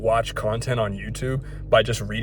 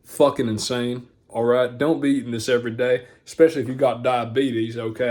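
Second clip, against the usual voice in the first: Hank Hill voice. Retold or imitated. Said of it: "switched up to the Hank Hill voice".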